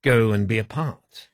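lightly put-on Italian accent; unhurried mock Italian accent. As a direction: tell it slowly with a hint of Italian. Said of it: "are you doing an Italian accent".

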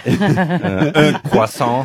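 a French-accented "un croissant", nasal final vowel. Shown as a demonstration. Friend asked to order it the French way, lightly French. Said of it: "do it how you did it this morning".

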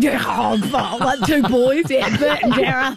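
giggling. Retold or imitated. Mimicking the caller's giggle, laughing.

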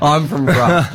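lightly attempted French accent; self-consciously bad French accent. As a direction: have a clumsy go at sounding French. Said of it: "he had a French accent".

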